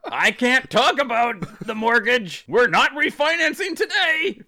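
high, slow dodging husband; mock evasive. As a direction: brush off the mortgage talk. Voicing husband dodging talk.

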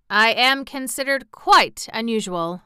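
proud. A narrator's reading. Sawhorse on being quite unusual, proud. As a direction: state it as a boast. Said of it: "with a tone of pride".

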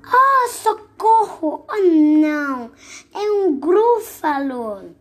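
high, slow, terrified squeal; panicked cry. Acted. Frightened creature screams on seeing the gruffalo, high panic. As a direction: shriek it out in fright.

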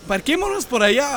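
mock call from a car window. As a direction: shout the suggestion across to the other car. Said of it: "me salgo por la ventana así de".

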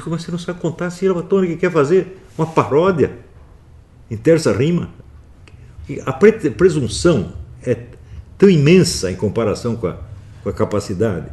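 voz alta e aguda de cobrança incrédula; bronca indignada. Retold or imitated. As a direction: recontando uma repreensão com indignação exaltada. Reconta a bronca ao poeta. (indignado, dando bronca)

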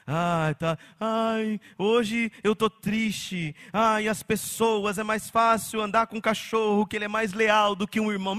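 slow, drawn-out whiny lament; mock sad post. Pastor mocks a sad social media post to his church, slow whiny lament. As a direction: drag it out like a self-pitying post. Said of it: "escrever lá as suas mágoas".

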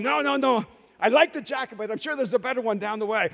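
mock casual refusal. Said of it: "So I'm going".

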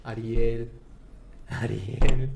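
a calling name that swells with each repeat; voice of God calling. Retold or imitated. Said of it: "Y me dice". (voz de Dios que llama, cada vez más fuerte)

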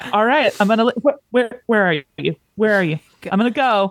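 acting out a jittery exit; mock nervous. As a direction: stammer like someone anxious to sneak away. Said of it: "must have just been so nervous".

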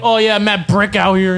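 mocking, drawn-out New York accent; slow New York street talk, imitated. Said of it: "New York accents are a turn off".

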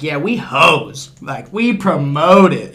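slow, drawn-out proud declaration; brazenly upfront. Acted. Girls owning it right up front, brazenly upfront. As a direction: own it shamelessly, stretching the words. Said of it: "They're just right, right up front".

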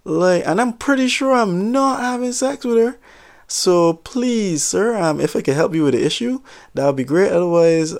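high, overly polite clerk voice; prim store clerk. Retold or imitated. Clerk politely denying the jealous customer, pitched high. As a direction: play the prissy, proper shop clerk.

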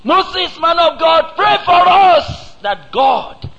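high, loud, slow pleading wail; desperate cry to Moses. Retold or imitated. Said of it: "They cried to Moses".

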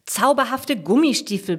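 "Zauberhafte Gummistiefel" stressed, pitched high; "Zauberhafte Gummistiefel" said high and pointedly to correct someone; emphatic correction. A narrator's reading. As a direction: lean hard on "Zauberhafte Gummistiefel". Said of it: "betont Jasmin".

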